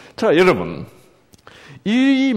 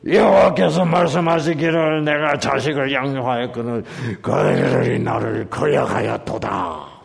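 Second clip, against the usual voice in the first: fearsome pulpit reading. Shown as a demonstration. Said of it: "무시무시하게 나옵니다".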